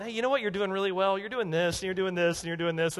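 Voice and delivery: lightly mocking, buttering-up patter; mock encouragement. Preacher imitating a careful confronter building someone up, mock encouraging. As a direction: build them up before the criticism. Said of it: "start with things that build 'em up".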